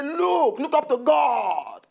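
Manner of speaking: put-on high, loud warning to the young; exhorting shout. Elder urging young people to look to God, exhorting loudly. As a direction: raise your voice, stretch out the plea.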